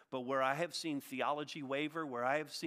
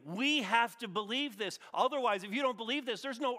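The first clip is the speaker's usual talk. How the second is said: "we have to believe this" preached high and loud, slowed; louder preaching; 8 semitones higher, 5 dB louder than usual. Acted. Pastor urges the congregation before they evangelize, preaching loud.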